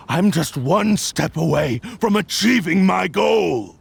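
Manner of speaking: a cursed blade snapping back at its accuser; angry outburst. Acted. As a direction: shout it, cornered and furious. Blade spirit lashes out defiantly.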